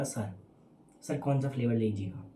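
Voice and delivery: soft, low and politely sweet, हमने-style shop talk toned down; lovingly polite. Retold or imitated. Ice cream seller softly asks the boy his flavour, lovingly polite. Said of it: "भैया ने बहुत प्यार से बोला".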